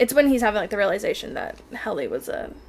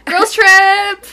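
excited; 10 semitones higher, 15 dB louder than usual. Real, not acted. Excited exclamation.

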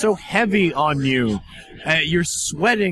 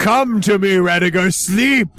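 evil queen; 2 semitones higher, 3 dB louder than usual. Acted. Table tempts Rudiger.

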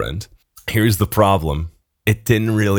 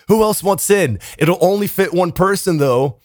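mock-tipsy invitation, pitched up; pretend drunk; 8 semitones higher than usual. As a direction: call it out higher, lightly faking drunkenness. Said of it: "I pretend that I'm more drunk".

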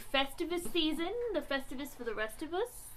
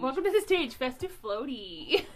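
mock announcer; 6 dB louder than usual. Announcer-style echo.

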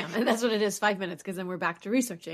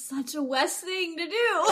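laughing; 10 semitones higher, slower than usual. Real, not acted. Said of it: "Isn't it, though?".

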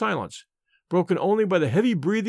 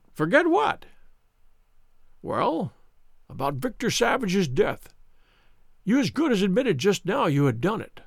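high-pitched, self-satisfied villain; Mister Smith, smug; 3 semitones higher than usual. Acted. Visitor who sniggered at sick Holmes, smug. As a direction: sneer at the helpless patient. Narrator voices sneering visitor.

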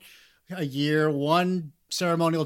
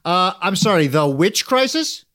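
playing dumb; 3 semitones higher, 4 dB louder than usual. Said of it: "Jerome, watch this".

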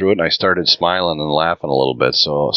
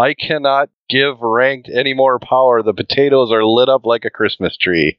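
mildly raised, hammed-up engineer's rant; Scotty rant; 4 semitones higher than usual. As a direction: rant lightly over the comms, no accent. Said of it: "ranting over the comms like Scotty".

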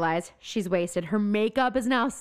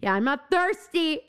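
mock blurt; 5 semitones higher than usual. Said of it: "She just blurts that out".

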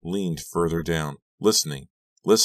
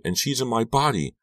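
high, desperate protest; frantic insistence; screamed; 8 semitones higher than usual. A narrator's reading. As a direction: cry it out, pitched up. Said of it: "I screamed".

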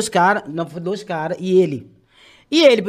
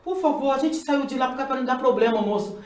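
soft, higher retold pleading; súplica chorosa imitada; 5 semitones higher, 5 dB quieter than usual. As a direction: beg the man quietly, pitch raised. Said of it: "Aí comecei a chorar". (súplica baixinha e chorosa, recontada)

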